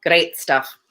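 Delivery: "great stuff" drawn out slowly with a rolled R. Shown as a demonstration. Reader shows co-host the line they couldn't resist, rolled R. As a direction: trill the R of "great", taking your time. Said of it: "couldn't resist rolling the R on that one".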